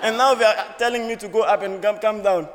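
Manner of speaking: can't believe the directions, laughing; laughing incredulity. Real, not acted. To the audience, laughing at the airport directions, loud and high.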